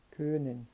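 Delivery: "Können" with lips rounded for O while saying E; German umlaut Ö. Shown as a demonstration. Teacher to students, modelling the Ö in Können. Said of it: "você arredonda os lábios ... e acaba dizendo um E".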